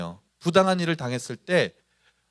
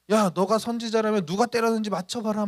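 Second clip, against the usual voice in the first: higher-pitched taunt; acted mockery; 5 semitones higher than usual. Crowd taunts the blindfolded Jesus after hitting him, mockingly. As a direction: act out jeering at a blindfolded man. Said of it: "조롱하는 거예요".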